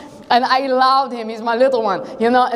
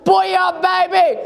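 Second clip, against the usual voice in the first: triumphant yell; 4 semitones higher, slower than usual. Acted. David charging the lion.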